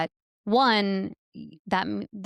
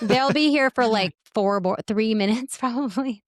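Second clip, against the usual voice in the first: raised voice over a leaf blower; talking loudly over background noise; yelling over leaf blower; 3 semitones higher, 5 dB louder than usual. Real, not acted. Gardeners' leaf blower running nearby.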